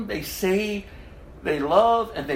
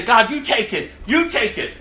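pleading mock prayer; 4 semitones higher, 5 dB louder than usual. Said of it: "all of a sudden they say".

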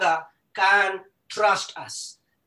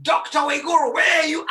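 father calling; 3 semitones higher, 4 dB louder, faster than usual. Retold or imitated. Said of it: "hear my father calling me".

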